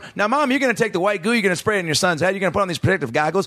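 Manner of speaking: put-on excited kids game show host. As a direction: announce it like a slime show host. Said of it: "being like".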